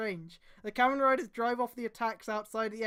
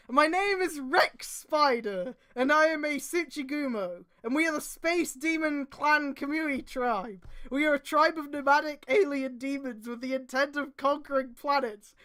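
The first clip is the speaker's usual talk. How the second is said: villain intro; 4 semitones higher, 4 dB louder than usual. Acted. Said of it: "The spider alien introduced himself".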